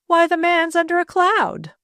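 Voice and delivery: high-pitched indignant protest; fuming. A narrator's reading. Mother objecting to her daughter's suitor, fuming. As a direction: object with rising outrage. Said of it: "fumed Missus Burnham".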